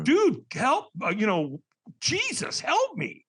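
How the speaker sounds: high, hammed-up cry for help; acted-out panicky pleading; desperate plea.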